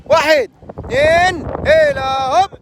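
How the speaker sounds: slow, drawn count for the jump. Real, not acted. Guide counting a jumper off the rock, slow drawn count. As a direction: drag out the count then the heave-ho.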